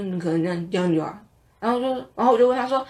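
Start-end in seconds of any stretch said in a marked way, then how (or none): 0.0-1.1 mumbled. Retold or imitated. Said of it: "他讲得很含糊".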